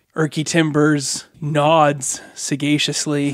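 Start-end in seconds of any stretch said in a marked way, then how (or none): none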